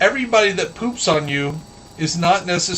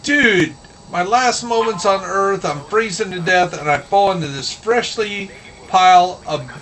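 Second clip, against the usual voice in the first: higher-pitched mock outrage at fate; a touch of cartoon indignation; dismayed bird; 3 semitones higher, 4 dB louder than usual. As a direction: complain incredulously as the doomed bird. Dying bird's complaint in the fable.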